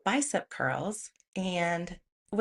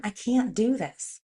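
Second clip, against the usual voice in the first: annoyed protest; 3 semitones higher, 4 dB louder than usual. Retold or imitated. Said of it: "And I'm so annoyed".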